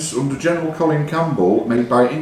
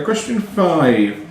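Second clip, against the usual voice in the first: very slow, drawn-out question number; quiz question announcement; 3 semitones higher, much slower than usual. Acted. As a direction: stretch it out like a quizmaster.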